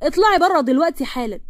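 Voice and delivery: restrained angry order to get out; mild acted yell, insistent. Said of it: "بس مروان زعق".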